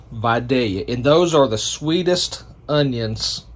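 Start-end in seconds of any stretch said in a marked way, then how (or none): 0.1-0.8 Vidalia with a long "vye", said softly; Georgia pronunciation. Shown as a demonstration. Reminding viewers after the lesson, Vidalia as vye-DALE-yuh.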